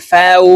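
"ফাউ" ending on a rounded w; rounded waw. Shown as a demonstration. Teacher drilling Arabic letters, rounded waw. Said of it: "ওয়াও হরফকে গোল করে উচ্চারণ করব".

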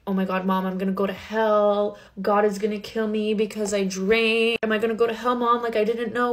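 retold tearful panic, lightly acted; hammed-up worry, building slightly; mock crying. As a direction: plead with mom as if starting to cry. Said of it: "And then I start crying".

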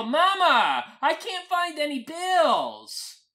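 loud, high yell to the next room. Acted. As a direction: holler it out, slow and stretched. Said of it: "I yell".

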